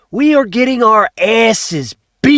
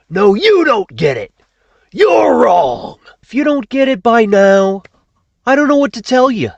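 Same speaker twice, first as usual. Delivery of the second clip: angry rant. Acted. Speaker yells at the audience, furious. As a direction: yell it at them, fed up.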